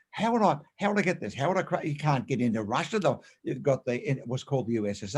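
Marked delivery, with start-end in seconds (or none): 0.1-1.9 higher-pitched run of worried hows; anxious questioner. Acted. Imitating people who start with how, fretful questioning. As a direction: mimic someone fretting over the how. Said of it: "they start with how".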